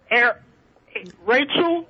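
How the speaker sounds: ordinary talk, nothing marked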